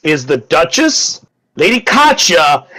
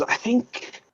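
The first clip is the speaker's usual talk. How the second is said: slow, musing noblewoman; 5 semitones higher, 5 dB quieter, much slower than usual. Acted. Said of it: "she goes".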